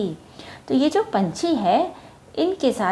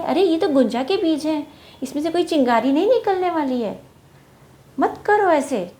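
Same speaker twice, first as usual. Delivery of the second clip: high, raised voice of a little bird warning; bird speaking louder; 6 semitones higher, faster than usual. Acted. Bird warns the monkeys their seeds won't spark, raised voice. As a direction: call out to the monkeys to stop, a bit louder. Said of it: "थोड़ा ज़ोर से बोली वो".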